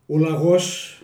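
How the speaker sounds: the hare and the tortoise told in Kozani Greek dialect; homely village fable in Kozani dialect. Shown as a demonstration. Telling the next fable to the interviewer, in Kozani dialect. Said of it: "Στα κοζανίτικα".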